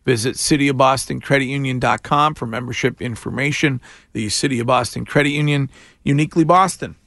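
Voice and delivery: upbeat sponsored weather and ad read. Acted. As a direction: read it like a radio sponsor spot.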